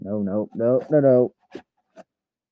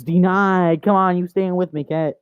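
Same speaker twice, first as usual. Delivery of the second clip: raised, higher mock-triumphant call; play taunting; 4 semitones higher, 3 dB louder than usual. Owner blocks the cat's escape, crowing playfully. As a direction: crow over a thwarted escape.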